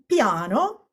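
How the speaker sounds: "piano" said as Italian, stressed before the last syllable; pronunciation demo. Shown as a demonstration. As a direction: model "piano" with a stressed then an unstressed syllable. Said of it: "let's just practice saying these words".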